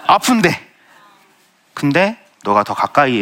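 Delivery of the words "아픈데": a high, laughing 아픈데. Real, not acted. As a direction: laugh through the word in disbelief. Laughs recalling being sick. (웃으면서 어이없다는 듯이)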